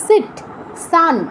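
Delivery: সিট and সান with a clear English s. Shown as a demonstration. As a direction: say সিট, সান as "sit, sun", no sh. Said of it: "অ্যাসের উচ্চারণটা যেমন".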